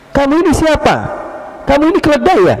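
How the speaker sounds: high, scolding shout; angry sleeper berating the man who stepped on him; angry yell. Retold or imitated. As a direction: insult him as a donkey. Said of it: "teriak dia".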